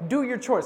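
"Do your chores" pressed firm and emphatic; stern emphasis. Retold or imitated. Mom hammering the chore message, firm stress on "Do". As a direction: mom driving the point home, "Do" stressed. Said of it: "just so I'd get the point".

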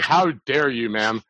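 mock outrage at the girl; mock offended. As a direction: play outraged over nothing. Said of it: "act very mock, mock offended".

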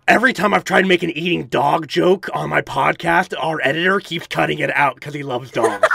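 gravelly mutant voice; lightly voiced wasteland mutant; Harvey Barrel. Shown as a demonstration. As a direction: joke along in a gravelly character voice. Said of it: "doing this voice".

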